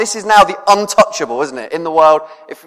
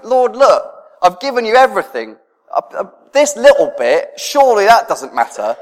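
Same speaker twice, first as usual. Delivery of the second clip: pleading, raised a little higher; a lightly voiced bargaining girl; voicing Rach's prayer; 5 semitones higher than usual. Girl pleading with the Lord, bargaining, mildly raised.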